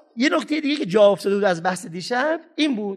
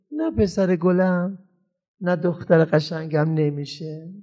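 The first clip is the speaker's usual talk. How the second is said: slow, gentle, steady no; firm but kind; 3 semitones lower, slower than usual. Shown as a demonstration. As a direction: hold the line tenderly. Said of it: "قاطع نیست سر حرفت باشی". (قاطع اما مهربان، آرام)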